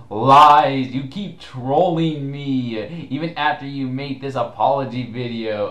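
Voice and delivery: quoting an angry forum reply with mock outrage; mock outraged reply. Retelling Meta's angry reply.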